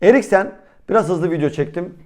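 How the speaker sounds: slightly out of breath, catching breath; talking while short of breath. Real, not acted. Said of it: "Nefesim kesildi".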